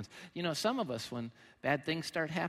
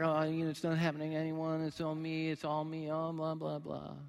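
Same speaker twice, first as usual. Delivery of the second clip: mock self-pity whine. Pity party whine voiced.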